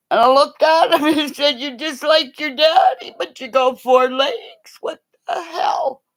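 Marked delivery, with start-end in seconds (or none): 1.6-6.0 high shouted scolding of the dog; half-laughing mock telling-off. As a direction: yell at the pup like a naughty kid.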